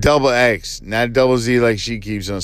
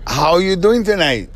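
higher-pitched mock Chinese accent; put-on Chinese accent; 4 semitones higher than usual. Host greeting a partner in character, mock Chinese accent. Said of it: "now I messed up the accent".

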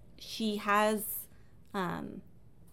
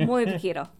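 muy poquito said louder with a heavy American accent; hammed-up gringo Spanish for muy poquito; 5 dB louder, faster than usual. Shown as a demonstration. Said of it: "With a gringo accent".

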